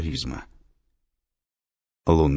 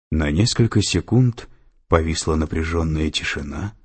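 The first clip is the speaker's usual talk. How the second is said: ordinary delivery, nothing marked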